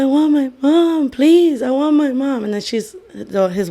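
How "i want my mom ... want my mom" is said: put-on high-pitched, half-raised child's plea; pleading mock yell. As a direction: beg for mom, re-enacting the outburst. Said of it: "I was yelling, saying".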